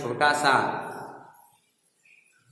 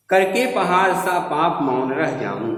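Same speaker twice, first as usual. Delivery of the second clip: raised pitch easing down the line; declaimed line of verse; verse recitation; 4 semitones higher, 4 dB louder than usual. Shown as a demonstration. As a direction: recite it as poetry. Reciting a verse before explaining it.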